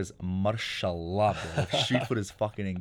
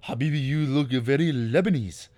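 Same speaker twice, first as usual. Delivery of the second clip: slow, louder, higher put-on voice; cashier voice; 5 semitones higher, 6 dB louder than usual. Cashier insists he looks Lebanese, slow put-on voice. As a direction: drawl out Habibi like the cashier.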